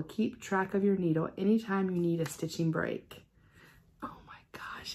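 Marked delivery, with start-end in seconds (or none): 4.0-4.9 breathless whispered gasp of delight; hushed amazement; awed whisper. Real, not acted. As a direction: whisper it in awe.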